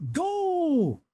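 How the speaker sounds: high, sharp shouted command; cried out. Acted. Driver cries out to launch the troika, high shout. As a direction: bark it out to start the horses. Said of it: "he cried".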